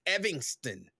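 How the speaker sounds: "Evanston" said as EV-ing-ston. Shown as a demonstration. Host joking that they get fancy, "Evanston" pronounced EV-ing-ston. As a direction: put an "ing" in the middle of "Evanston". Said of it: "They throw an I N G in there".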